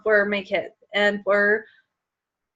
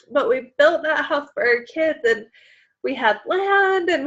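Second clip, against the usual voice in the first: higher, strained voice close to tears; choked up; 3 semitones higher than usual. Real, not acted. Mom recalling the dream house built for her kids, fighting tears. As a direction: hold back tears over the lost house. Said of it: "I don't know why I'm so emotional".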